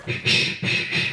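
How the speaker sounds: urgent unvoiced shh to hush his sister; hurried hushing, barely any voice; frantic shushing. Big brother hushing crying sister so Mum won't hear, urgent whisper.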